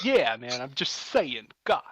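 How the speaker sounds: swooping, halting shrimp voice; lightly hammed-up celebrity shrimp; Christopher Walken. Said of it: "I love that Christopher Walken shrimp".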